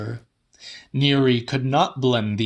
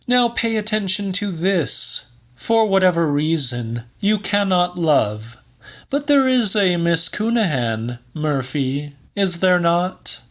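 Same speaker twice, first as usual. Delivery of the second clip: Neary's voice, much higher and louder; Neary, declaiming; 8 semitones higher, 3 dB louder than usual. A narrator's reading. Neary defining love to Murphy, much higher and louder. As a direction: ecstatic Neary, pitched high and loud.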